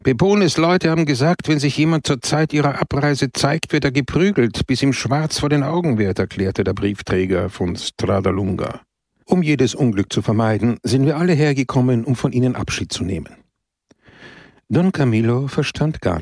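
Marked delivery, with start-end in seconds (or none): 0.0-6.2 higher, animated villager; a hint of a breathless postman; lightly voiced excited villager; eager explanation. 9.2-13.4 fast, eager rush of words; quickly explained good news; hurried. Acted. Postman continues explaining.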